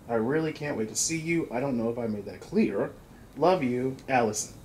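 put-on letter-reading delivery. Player reading a sister's letter to Tyler, reading voice. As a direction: read the letter out with a touch of performance. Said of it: "I got my reading voice".

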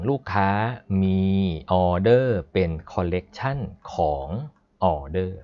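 slow, spaced-out demonstration reading; reading code aloud. Shown as a demonstration. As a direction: read it slowly as a sentence, pausing between parts. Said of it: "เวลาอ่านนี่อ่านแบบภาษาคนเลยอะ".

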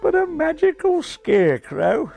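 high Australian disbelief; amazed Australian. Acted. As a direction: exclaim it high in an Aussie accent. Australian pigeon amazed by news.

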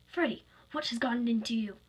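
mild indignant reproach; a touch of stern disbelief; scolding. Acted. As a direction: tell him off, lightly acted. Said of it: "Gold scolded".

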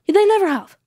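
"They never have" punched high and hard, "never" stressed; emphatic repeat. Real, not acted. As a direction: hammer home "They never have" as a firm restatement. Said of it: "Let me say that again".

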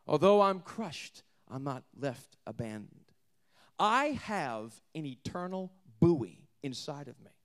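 slow, intense preaching that dips to a hushed whisper; preaching Paul's words. Acted. Preacher voicing the apostle, slow and intense. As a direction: build from hush to a defiant swell.

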